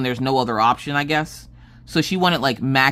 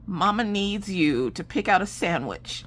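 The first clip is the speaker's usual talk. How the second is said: higher, measured mama voice; careful coaxing; 5 semitones higher, 4 dB quieter than usual. Retold or imitated. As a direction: gently ease a child into bad news.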